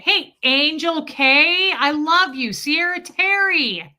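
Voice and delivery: high, loud, drawn-out greeting; gushing hello called out to fans; excited shout-out. Real, not acted. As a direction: sing out the names, stretched and high. Breaks off to hail viewers.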